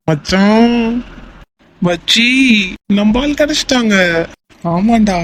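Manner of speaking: high, elated celebration; drawn-out, high calls of joy to a buddy; overjoyed. Acted. Friend celebrates the missing girl being found, overjoyed.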